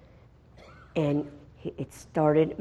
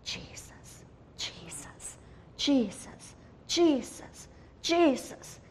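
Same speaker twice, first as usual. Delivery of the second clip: faint voice returning; 6 semitones higher, 10 dB quieter, slower than usual. Retold or imitated. Revived boy saying Jesus, whisper rising into voice. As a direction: whisper slowly growing into a higher voice. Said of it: "heard him saying".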